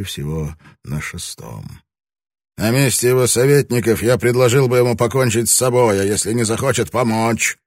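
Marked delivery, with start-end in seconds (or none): 2.6-7.6 heated conviction. A narrator's reading. Lord's heated scheming.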